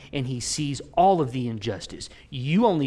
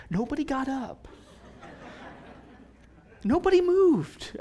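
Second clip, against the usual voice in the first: amused disbelief; 12 semitones higher than usual. Real, not acted. Amused alarm story.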